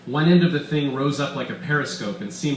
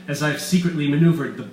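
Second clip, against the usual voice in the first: loud, gloating mad scientist voice; villain Weiss; 4 semitones higher, 6 dB louder than usual. Acted. Doctor Weiss gloating to his captives, loud and smug. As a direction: boast like a scheming villain.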